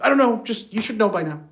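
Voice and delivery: hammed-up overwhelmed wife; distraught wife. Wife complaining vaguely to husband, mock distraught high voice.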